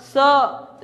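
"स" as a plain s followed by "अ"; s plus a. Shown as a demonstration. Teacher asking which vowel is heard, demonstrated "स". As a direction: say "स" with an open a after it. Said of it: "इसमें किसकी ध्वनि आ रही है".

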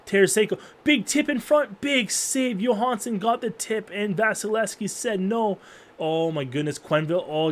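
high, fast rising calls; excited play-by-play. Real, not acted. Streamer calling a goalmouth scramble, high excited play-by-play. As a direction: call the scramble like a live broadcaster. Frantic net-front scramble.

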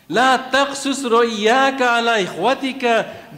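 fast, measured Quranic recitation; quick devotional recital of scripture. Acted. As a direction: recite the verse in flowing Arabic cadence. Recites verse.

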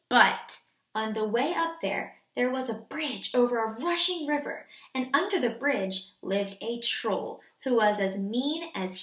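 put-on measured storybook reading for children; story narration. A narrator's reading. Teacher reading a fairy tale to the class, storytelling. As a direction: read the tale clearly and steadily.

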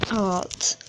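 "a lot" breathed in a whisper; hushed emphasis on "a lot"; whispered echo. Shown as a demonstration. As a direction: whisper "a lot" as a secret aside.

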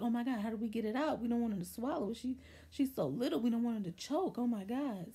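mild, hurried mock panic; retold freak-out. Family fretting over a small child at the ER, retold panic. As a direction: imitate everyone fretting at once. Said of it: "everybody was just freaking out".

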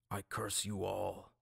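slow, deliberate priestly curse. A narrator's reading. Priest cursing the captains, slow solemn curse. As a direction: lay the curse slowly. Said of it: "Aaron said".

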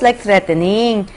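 ordinary delivery

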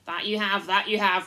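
loud eager chorus of agreement; loud, enthusiastic roaring; roaring enthusiasm. Acted. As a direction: roar it out like a crowd of yes-men. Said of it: "roared the other voices with great enthusiasm".

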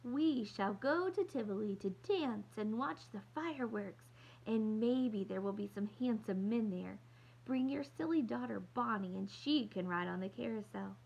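lightly voiced grand lady doll; a hint of posh playacting. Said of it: "using her doll voice".

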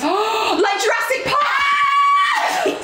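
high cry after a gasp; gasp, then call it out high; excited exclamation. Real, not acted.

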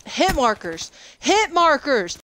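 high, stretched-out complaint; exasperated cry. Real, not acted. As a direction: rage at the hit markers. Raging about hit markers.

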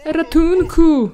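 high, loud, slow plea; mock cry for help. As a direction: wail for help like the freezing Sim. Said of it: "Powinieneś krzyczeć ratunku". (głośne, przeciągłe wołanie o pomoc)

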